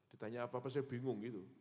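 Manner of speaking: ordinary talk, nothing marked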